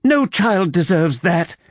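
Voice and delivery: firm, heated, deliberate conviction; hotly. A narrator's reading. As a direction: press each word in indignation. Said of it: "she said hotly".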